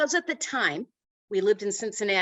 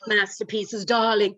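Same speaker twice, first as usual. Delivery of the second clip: joking posh plea. Pretend. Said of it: "as I'm joking and saying".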